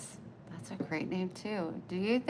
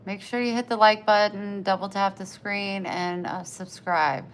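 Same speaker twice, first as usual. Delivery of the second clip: call-out; 7 dB louder than usual. Real, not acted. Streamer call to subscribe.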